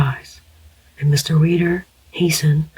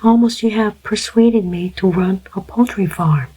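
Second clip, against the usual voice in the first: put-on young woman; 4 semitones higher than usual. The girl teasing Mr. Reader.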